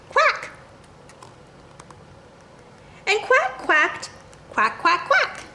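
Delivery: playful quacks. Acted. Duck quacking in picture book.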